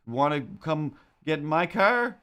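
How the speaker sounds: a hint of a sleazy guy yelling from a car; creepy catcaller. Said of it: "just like".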